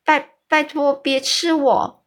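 put-on scared little girl begging, stumbling on words; frightened stammer. A narrator's reading. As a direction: stutter out the plea in fear. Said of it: "结结巴巴地说着".

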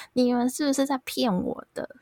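high, pleading accusation at the nurse; patient in labor accusing the nurse, furious and high; angry yell. Retold or imitated. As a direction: yell it like she's lying to you. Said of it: "很生气的大吼".

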